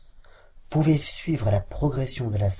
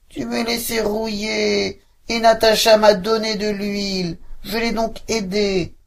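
gate murmuring; 9 semitones higher, 3 dB louder than usual. Acted. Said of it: "murmura la grille".

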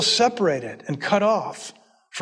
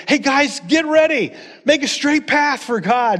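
calling out; 5 semitones higher than usual. Retold or imitated. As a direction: rouse the crowd. Calling out to the exiles.

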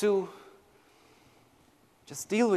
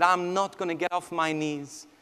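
low, soft, resolute prayer; hushed vow, slowing at the end; retold vow; 4 semitones lower, 8 dB quieter than usual. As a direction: quietly imitate a mother's vow to God. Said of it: "she made a vow".

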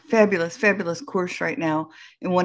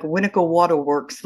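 imitating a New Jersey grandma; New Jersey vowels in "Water"; lightly mimicked New Jersey accent; grandma's New Jersey accent. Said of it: "she would always say things like".

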